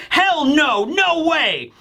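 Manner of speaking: high-pitched mock protest; emphatic refusal. Two boys rejecting her offer to stay, mock emphatic protest. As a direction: blurt it out as an imitated flat refusal. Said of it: "both speak up at the same time".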